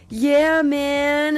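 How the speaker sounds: lightly voiced laid-back surfer drawl; a hint of the girlfriend's mellow "yeah man"; girlfriend's surfer talk. Imitating his girlfriend's Keystone talk, laid-back. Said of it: "she seriously talks like this".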